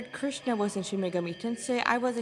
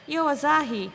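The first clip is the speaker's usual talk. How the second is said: loud, higher call; 7 semitones higher, 7 dB louder than usual. Acted. Nanashi calling out to his sister, loud call. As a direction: call across to her. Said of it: "he called out to his sister".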